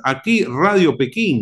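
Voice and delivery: a light, slow imitation of a shortwave station ID; a hint of a vintage announcer voice; old radio announcer. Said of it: "decía".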